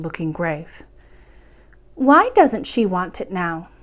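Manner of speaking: gentle, even bedtime reading voice; storyteller reading a classic fairy tale aloud; story narration. A narrator's reading. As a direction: read it like a chapter for children at bedtime. Reads a bedtime chapter aloud.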